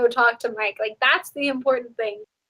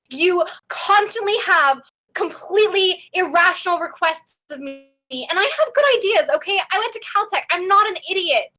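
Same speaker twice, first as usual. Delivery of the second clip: higher-pitched, fed-up protest; exasperated outburst; 4 semitones higher than usual. Acted. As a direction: quit on your boss, mildly indignant. Quitting speech to a mean boss.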